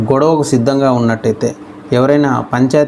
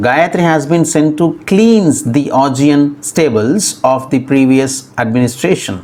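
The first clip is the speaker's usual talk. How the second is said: slow example reading; much slower than usual. Shown as a demonstration. Teacher reads example slowly.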